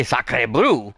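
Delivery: "Sacre bleu" said the French way, sah-kreh bluh; French pronunciation. Shown as a demonstration. Player shows the one French phrase he can say well. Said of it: "and sound good".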